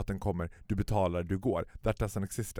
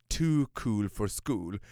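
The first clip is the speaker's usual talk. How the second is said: mock drawl; much slower than usual. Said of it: "pratar släpigt".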